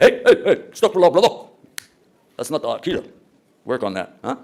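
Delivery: wag a finger at a brother; half-joking rebuke; mock scolding. Scolding a brother over creed.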